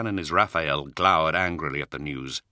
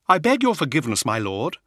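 humble plea; 9 semitones higher, 5 dB louder than usual. Acted. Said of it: "he said with bowed head".

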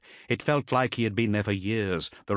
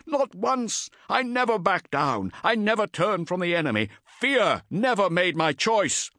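defiant yell; 11 semitones higher, 3 dB louder than usual. Acted. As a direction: hurl the denial back. Cestus keeps defying taskmaster.

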